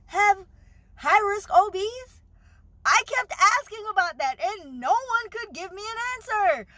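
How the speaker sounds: words pushed out on the edge of tears; near tears. Real, not acted. Telling viewers about her doctor while fighting back tears. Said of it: "I'm about to cry".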